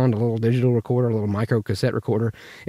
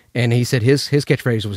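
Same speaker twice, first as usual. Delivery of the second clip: plain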